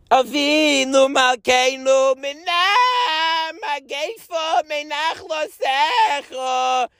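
slow, drawn-out chanted shout; shouted prayer. Retold or imitated. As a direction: cry it out with all your heart. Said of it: "We shouted it with all our hearts".

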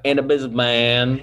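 mimicked light Southern drawl. Host mimics co-host's slip, teasing Southern drawl. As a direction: tease with a Southern drawl on the ending. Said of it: "you went, like, Southern drawl".

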